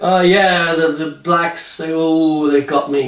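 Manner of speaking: lightly voiced, slow, fake-innocent excuse; a hint of a boy making up a story; sarcastic mock alibi. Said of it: "he's just blaming it all".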